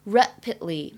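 "Rapidly" with the d barely released, gliding into the l; "Rapidly" said rapid-ly, d very light. Shown as a demonstration. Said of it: "的会读得非常的轻，很快呢".

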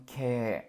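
"ke" held as one long vowel. Shown as a demonstration. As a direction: draw out the vowel in "ke". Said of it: "长音ke".

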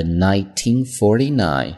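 "nineteen forty-nine" said slowly as two pairs, nineteen, forty-nine; year read in pairs. Shown as a demonstration. Teacher showing students how to read a year, in pairs. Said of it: "注意年份的读法啊，两位，两位读".

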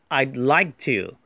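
"I'd like to" with the d of "I'd" barely released; light d. Shown as a demonstration. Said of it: "这个的很轻哈". ("I'd like to"里的d读得很轻)

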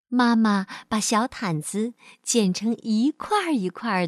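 measured, expressive storyteller voice; children's story narration. Acted. Teacher reads a picture-book story to children, storytelling. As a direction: tell it to a small child.

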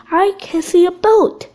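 understated call of a sighting. A narrator's reading. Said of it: "he called".

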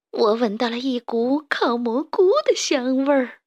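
dopey food-lover voice, climbing at the end; greedy sidekick daydreaming of food; hungry henchman. Acted. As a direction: drool over the smell. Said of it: "田鼠克拉拉舔舔嘴唇".

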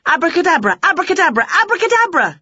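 high, rising magic chant; shouted spell. A narrator's reading. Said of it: "she shouted".

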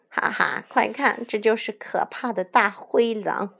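light jeering ha-ha; mocking laughter. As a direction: crow over the beaten wolf. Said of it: "小红帽看着被打趴在地的大灰狼笑起来". (带笑地嘲弄)

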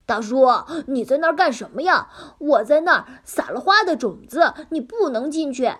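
small piglet talking brightly. Acted. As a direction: voice the little pig. Piglet voice in story.

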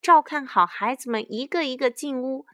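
high storybook command; shouted instructions. A narrator's reading. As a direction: herd everyone indoors. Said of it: "卡梅拉大喊道".

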